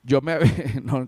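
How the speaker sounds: laughing nervously mid-sentence. Real, not acted. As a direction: giggle through the words from nerves. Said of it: "yo me río de los nervios".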